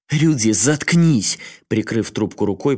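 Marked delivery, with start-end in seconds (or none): 0.1-1.4 loud, slow snarled command; angry snarl. A narrator's reading. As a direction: growl at him to shut up. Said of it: "прорычала Сакава". (злобно прорычать)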